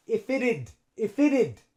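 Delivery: "if it had" as "iffit-ud"; linked contraction. Shown as a demonstration. Teacher shows the link for learners, joined up. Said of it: "the F links onto the I".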